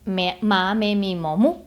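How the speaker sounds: "Me, ma, me, mi, mo, mu" each syllable spoken separately; "Me, ma, me, mi, mo, mu" spelled out in clear separate beats; syllables one by one. Shown as a demonstration. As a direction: list "Me, ma, me, mi, mo, mu" with a beat between each. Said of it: "cinco sílabas diferentes".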